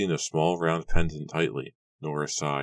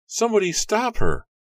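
much higher, louder frantic yell; panicked scream; 8 dB louder than usual. A narrator's reading. Alarmed voices from the crowd.

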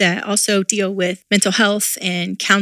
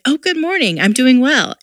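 fake cheerful; 6 semitones higher than usual.

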